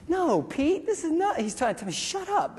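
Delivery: high, hushed insistence; hushing medic. Retold or imitated. Medic hushing the sergeant beside the wounded man, urgent.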